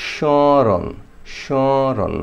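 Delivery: স্মরণ with the শ lightly nasal, no m sound; nasal smaran. Shown as a demonstration. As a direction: say স্মরণ as "shoron" through the nose. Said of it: "মানে নাকে হালকা বাজ". (স্মরণ নাকে হালকা বাজিয়ে)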